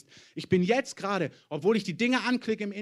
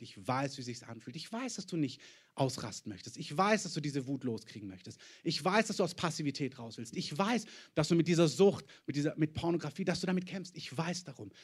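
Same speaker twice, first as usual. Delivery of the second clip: gentle God's voice; 2 semitones lower, 4 dB quieter than usual. Retold or imitated. God voiced speaking tenderly.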